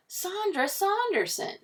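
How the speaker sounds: high, slow, swooning name; drawn-out admiring exclamation; starstruck. A narrator's reading. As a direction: gush the name slowly and very high. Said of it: "Mister Morley blushed".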